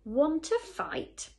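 loud, high, drawn-out dare; slow and pushy, spoiling for a fight; bad-tempered challenge. A narrator's reading. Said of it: "said the bad-tempered ladybird".

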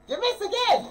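high, loud teasing shout; loud laughing taunt. Real, not acted. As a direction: shout the tease. Teasing loudly.

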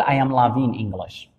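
I am loving English said very slowly; slow wrong example. Shown as a demonstration. Teacher slowly shows the sentence students must not say. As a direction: spell out the mistake word by word. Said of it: "ما نقدرش نقول".

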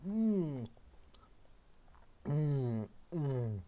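mm of delight while chewing; savoring a bite. Real, not acted. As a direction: hum with a full mouth, savoring. Eating a Jaffa Cake.

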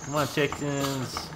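high, slow coaxing call. Acted. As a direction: coax them out sweetly. Calling chickens in game.

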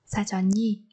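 사전이 with final ㄴ carried into 이; linked sounds. Shown as a demonstration. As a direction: run 사전이 together as "sa-jeo-ni". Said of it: "Chúng ta nối âm ở đây". (đọc nối âm 사전이 thành "sa-jeo-ni")

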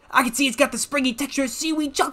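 put-on high, thrilled Southern old-timer; horrible Southern accent. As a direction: gush in a hammed-up Southern accent. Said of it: "I did a horrible Southern accent".

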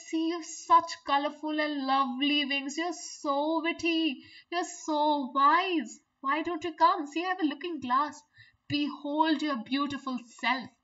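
a hint of a smooth coaxing flatterer; flattering spider. Teacher retelling the spider's flattery to the class, coaxing. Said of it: "The spider says".

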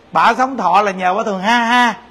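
a playful laugh on the ha ha; laughing through it. Shown as a demonstration. Monk cheering the elderly, laughing lightly. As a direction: chuckle out the ha ha as a light mock laugh. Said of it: "Còn ai mà thường hu hu".

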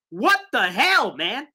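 slow, exasperated what the hell; fed-up fan asking what the hell. Real, not acted. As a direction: throw up your hands at the play call. Ranting about the Jets' fourth-down call.

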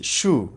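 শু said in a single beat; one syllable. Shown as a demonstration. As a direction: say শু all at once, as one syllable. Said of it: "একবারে উচ্চারণ করছি". (শু একবারে উচ্চারণ)

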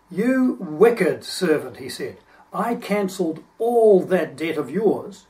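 slow, stern rebuke; slow each word down like a judge passing sentence. Acted. The master rebuking his wicked servant, slow and stern.

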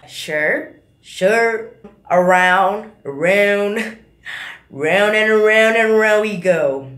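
stretched Texas "around" with a rising glide; Texas drawl. Shown as a demonstration. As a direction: draw out every "around". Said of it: "mereka melebih-lebihkan satu kata". (logat Texas yang dipanjangkan)

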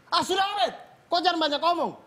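embarrassed rider bluffing the other rider; defensive bluster. Retold or imitated. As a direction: brush him off to save face.

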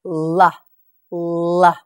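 a clear, sustained "la" sound; letter L sound. Shown as a demonstration. Teacher showing children the L sound, sounded out clearly. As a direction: model the "la" sound for learners. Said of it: "The letter L makes this sound".

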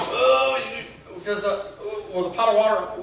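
high, loud alarmed cry at Drew; alarmed exclaiming. Retold or imitated. Pastor retelling alarm at Drew's cooking, loud and high. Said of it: "And I'm going".

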